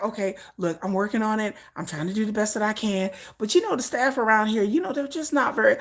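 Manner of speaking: calm the boss down; mock soothing assistant. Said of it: "the assistant's like".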